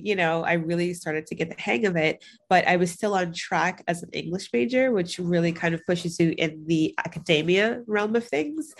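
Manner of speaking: stuffy blocked nose; congested. Real, not acted. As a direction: talk through a head cold. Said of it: "I am congested".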